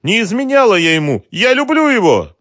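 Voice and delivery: high, loud desperate cry; a last pleading attempt; desperate plea. A narrator's reading. Mara's last attempt with the thugs, high and desperate. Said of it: "сделала последнюю попытку".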